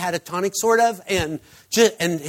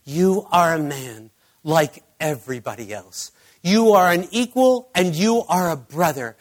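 earnest direct address. Retold or imitated. Therapist speaking right into the injured man's face, earnest affirmation. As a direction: speak it right into his face, stressing each point. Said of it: "spoke right into his face".

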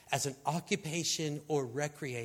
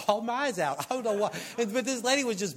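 laughing; 5 semitones higher, much faster than usual. Real, not acted. Laughs recalling own crying.

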